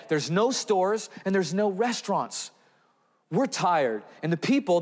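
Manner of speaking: a tired disciple begging to call it a day; exhausted apostles. Retold or imitated. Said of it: "I can only imagine what's going on in the mind of these exhausted apostles".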